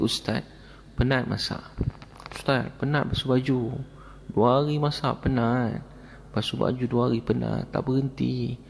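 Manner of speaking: mock weary lament with drawn-out words; retold tearful complaint. Exhausted cook complains to the ustaz about his chores, mildly tearful imitation. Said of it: "Pakcik, kenapa nangis?".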